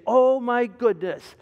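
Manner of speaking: slow, elated sigh of relief; imitated relief. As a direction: savour the joy of being free. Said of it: "you say".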